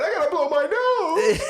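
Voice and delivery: put-on high whiny little-girl voice; imitating whiny daughter. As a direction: mimic a kid stalling at bedtime. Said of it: "The second she gotta go to bed".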